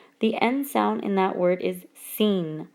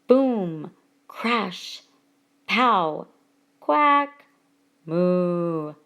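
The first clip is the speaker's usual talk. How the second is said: each word voiced like its noise; onomatopoeia; 3 semitones lower, much slower than usual. Shown as a demonstration. Teacher giving examples of words that sound like what they describe, onomatopoeia. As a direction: act out each sound word, pausing between. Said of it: "words that sound like that which they describe".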